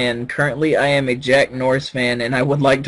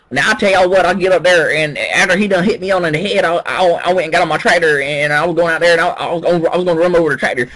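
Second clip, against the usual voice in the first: put-on Alabama redneck accent; 4 semitones higher, faster than usual. Telling friends how the patient talked, Alabama redneck accent. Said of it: "sounds like movie redneck from Alabama".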